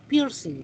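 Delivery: piercing said the English way, mouth shaped a little oddly; English-style piercing. Shown as a demonstration. Teacher shows the class the English sound of piercing. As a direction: twist the mouth a bit for piercing. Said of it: "Hasta tratamos de hacer así un poquito rara la boca".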